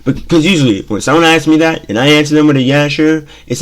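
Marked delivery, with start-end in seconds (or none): 2.6-3.2 a touch of sarcasm on yeah sure; mildly mocking agreement; sarcastic. Shown as a demonstration. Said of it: "in the most sarcastic manner".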